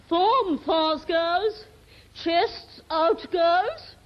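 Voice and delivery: drill sergeant. Acted. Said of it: "Ladies' Army".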